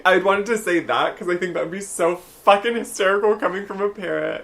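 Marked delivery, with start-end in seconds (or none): none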